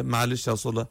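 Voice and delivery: a hint of a patient, soothing tone; calming. Prophet voiced as patient, calming.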